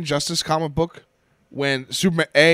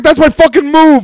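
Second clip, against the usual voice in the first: mock Bane; 10 semitones higher, 12 dB louder than usual. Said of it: "and Bane's like".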